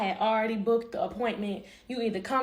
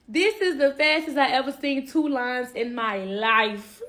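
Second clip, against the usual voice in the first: tearful disbelief; 3 semitones higher, 5 dB louder, slower than usual. Real, not acted. Shock at positive pregnancy test.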